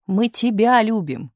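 high, drawn-out emphatic cry; shouting. A narrator's reading. Misha declaring friendship to Tumanov, crying out. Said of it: "закричал Миша".

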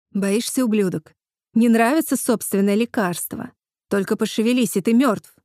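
snarling threat, rising to a shout; menacing threat. Acted. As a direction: threaten him, build to a yell. Eve threatens killer with syringe.

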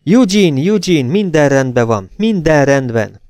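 high, loud, urgent relief; relieved excitement. A narrator's reading. Rachel reassures her husband, excited and relieved. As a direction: pour out the relief to him.

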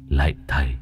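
a hint of a frail old man pleading; lightly voiced old ghost. Old ghost telling the exorcist how he died, pleading. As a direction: plead your wrong to the exorcist.

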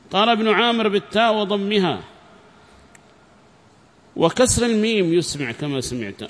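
formal lesson reading voice; reading a text aloud. Acted. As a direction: read it out clearly to a class.

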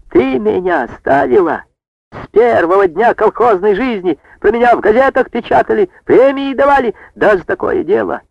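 high, indignant shouting; outraged outburst. A narrator's reading. Brigadier furious at chairwoman for removing him, high indignant shout. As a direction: protest like a wronged old man. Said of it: "вскочил на ноги, заметался".

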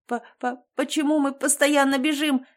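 panting, stumbling over words; out of breath. Acted. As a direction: gasp it out after running. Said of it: "задыхаясь". (запыхавшись, сбивчиво)

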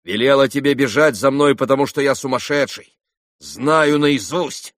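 irritated. A narrator's reading. Ivan to Alyosha chasing him, irritated. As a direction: snap back in irritation. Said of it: "раздражительно прибавил он".

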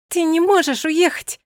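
high, loud protest; desperate cry. A narrator's reading. Yasmin begging Milosh not to leave, high and loud. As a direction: plead at the top of the voice.

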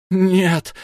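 high, loud cry of no; a sorcerer crying out as the god leaves; anguished shout. A narrator's reading. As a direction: fling the word out in rage. Wizard leaps forward in fury.

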